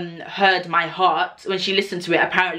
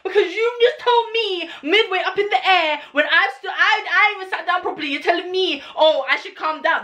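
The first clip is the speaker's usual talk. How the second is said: high, laughing incredulity; incredulous outrage; 12 semitones higher than usual. Retold or imitated. To the nurse, high laughing indignation. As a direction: squeal it out, half laughing.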